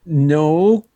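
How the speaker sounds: light mock German accent. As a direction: answer with a put-on German accent. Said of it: "you can do that accent".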